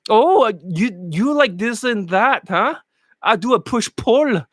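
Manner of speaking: a light imitation of an Indian accent, slow; slow, hesitant student in a light Indian accent; mock Indian accent. Coach imitating the student's push-pull in a slow mock accent. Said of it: "let me imitate their act".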